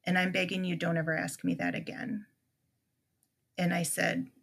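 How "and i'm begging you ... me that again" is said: deadpan. Retold or imitated. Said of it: "I'm in deadpan, no emotion voice".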